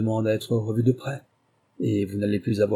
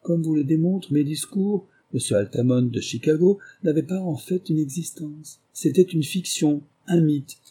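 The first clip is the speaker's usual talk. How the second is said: higher-pitched, urbane detective explaining; lightly voiced Holmes, amused; 6 semitones higher than usual. Holmes reveals Altamont never existed, lightly amused.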